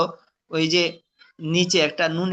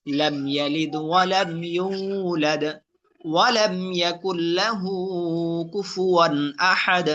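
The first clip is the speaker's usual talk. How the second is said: slow, measured tajweed chant; Quran recitation; slower than usual. Shown as a demonstration. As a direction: recite with drawn-out vowels. Recitation demo.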